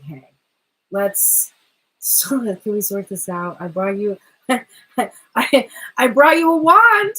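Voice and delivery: a sheepish guy offering a gift through laughter. Acted. Masculine voiced offering peace, laughing.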